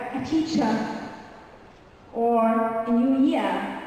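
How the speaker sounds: British silent final R; British accent. Shown as a demonstration. Teacher shows how other dialects end words, British accent. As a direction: drop the R at the ends, British style. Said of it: "That's very British".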